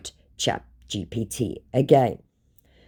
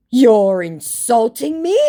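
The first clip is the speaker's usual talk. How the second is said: mock offended scammer; 10 semitones higher, 8 dB louder, slower than usual. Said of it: "he said".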